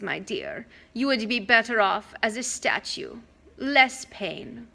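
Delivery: a hint of a silky monster; Medusa tempting. Monster luring Percy to be a statue, silky.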